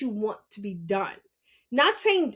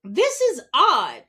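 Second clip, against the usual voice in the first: puzzled aside; 5 dB louder, slower than usual. Retold or imitated. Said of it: "I was just like".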